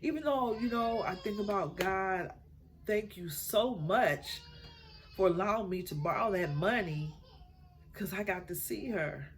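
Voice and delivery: crying through her gratitude; tearful thanks. Real, not acted. Grateful tears about her mother.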